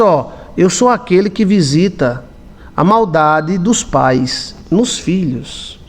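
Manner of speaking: lento, grave e solene; voz de Deus. Retold or imitated. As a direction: fale como Deus, com peso. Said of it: "Ele disse". (voz solene de Deus, lenta)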